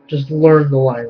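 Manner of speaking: ordinary talk, nothing marked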